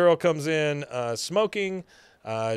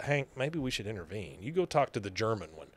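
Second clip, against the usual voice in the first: hushed, much softer aside; whispering; 3 semitones lower, 8 dB quieter than usual. Retold or imitated. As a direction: whisper it behind her hand. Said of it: "Peggy, whispering".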